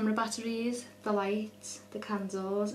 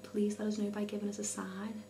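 nervous night vlog whisper. Retold or imitated. Retelling her own words whispered.

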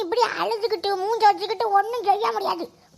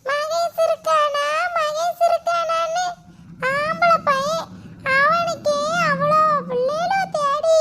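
slow boastful bragging; 5 semitones higher, slower than usual. Acted. Mother brags about her son.

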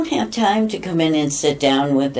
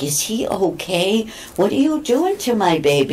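worried cat dad; 4 semitones higher than usual. Retold or imitated. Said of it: "He was like".

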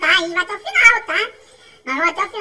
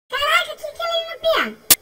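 amazed; 9 semitones higher than usual. Real, not acted. Puzzled at game character.

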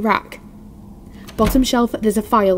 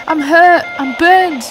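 louder, pleading distress call; desperate plea; 5 semitones higher, 5 dB louder, slower than usual. Acted. Injured woman calling for rescue over the radio. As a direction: push it out over the static.

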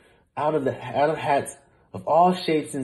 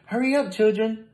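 teacher calling; 10 semitones higher than usual. A narrator's reading. Teacher calls to her class.

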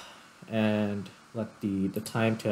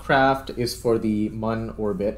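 louder, addressing the AI clearly; loud call to assistant; 5 dB louder than usual. Real, not acted. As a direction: speak up so the assistant hears.

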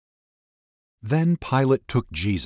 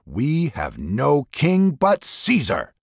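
higher, slow and louder, a voice set apart; chief priests; 7 semitones higher, 4 dB louder, much slower than usual. A narrator's reading. Chief priests answering Pilate, slow, high and defiant. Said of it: "the chief priests answered".

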